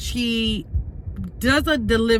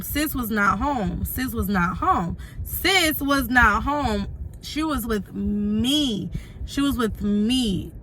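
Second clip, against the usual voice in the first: slow emphatic repetition; slower than usual. Real, not acted. Repeating for emphasis, slowly.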